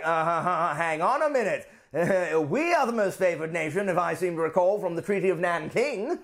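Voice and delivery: lightly voiced British objector; a hint of huffy British protest; indignant Britain. Britain objecting over the Treaty of Nanking, mildly huffy. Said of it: "And Britain's like".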